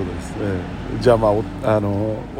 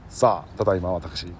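live commentary; 5 semitones lower, 8 dB quieter than usual. Shown as a demonstration. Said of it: "実況ってこんな感じだっけ？".

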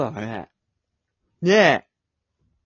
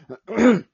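pointed throat clear; 8 semitones higher, 8 dB louder than usual. Retold or imitated.

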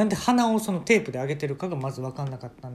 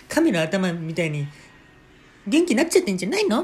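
teasing mother; 5 semitones higher, 5 dB louder than usual. Retold or imitated. Mother teasing father at the table, shrill and loud. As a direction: tease him, loud and high-pitched. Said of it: "って言って".

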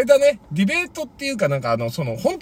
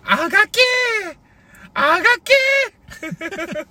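high, stretched-out shout; drawn-out cry; 14 semitones higher, much slower than usual. Pretend. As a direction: call it out long and high. Mock rallying cry.

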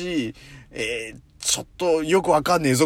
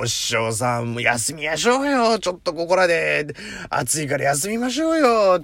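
whining disciple. Retold or imitated. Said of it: "西遊記の三蔵法師ご一行みたいな".

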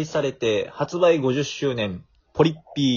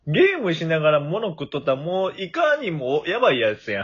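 crunching chips. Real, not acted. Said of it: "めっちゃ袋菓子の音がすんのね".

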